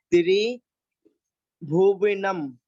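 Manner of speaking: त्रिभुवनम stretched out very slowly, syllable by syllable; teacher chanting त्रिभुवनम slowly; drawn-out recitation. Shown as a demonstration. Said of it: "इसमें थोड़ा सा आप समझ लेना".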